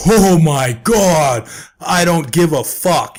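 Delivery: slow, high, mocking drawl; sarcastic. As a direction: drip with sarcasm, dragging it out. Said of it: "sarcastic voice I could possibly".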